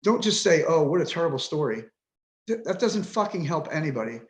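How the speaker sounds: real exasperation, punching the openings; frustrated, demanding to be taken seriously. Real, not acted. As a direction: vent with pointed, emotional challenges. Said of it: "So there's my frustration".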